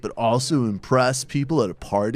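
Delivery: mock infomercial sales question; infomercial pitchman. Host pitching socialism to party-goers, infomercial voice. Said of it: "like one of those infomercials".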